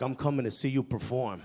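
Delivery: low, lightly menacing tone; veiled threat. Retold or imitated. Uncle announcing he'll attend the show, veiled threat. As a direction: make a friendly promise sound threatening. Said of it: "sound like a threat".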